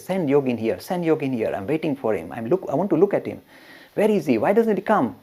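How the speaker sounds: mildly agitated retold demand; impatient master, rising in pitch toward the final questions. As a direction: act out anxious waiting, building. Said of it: "He's becoming very agitated".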